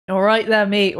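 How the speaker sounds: mild attempted Australian accent on "All right, then, mate"; a hint of Australian accent. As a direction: try a casual Australian accent. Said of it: "give me your best Australian".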